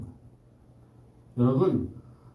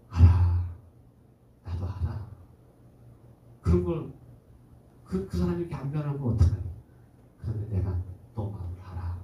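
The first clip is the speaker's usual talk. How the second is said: tender comfort; 3 semitones lower than usual. Acted. Holy Spirit comforts the angry speaker.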